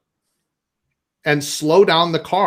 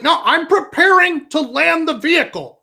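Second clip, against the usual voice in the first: dad's voice, higher; solemn dad explaining; mock dad; 9 semitones higher than usual. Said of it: "he's like".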